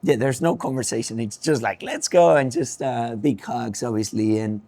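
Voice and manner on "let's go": mild mock yell, higher and louder; retold scream. Driver retelling dad's reaction to the win, mock celebratory yell. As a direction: imitate a celebratory shout, short of screaming. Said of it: "just to scream and say".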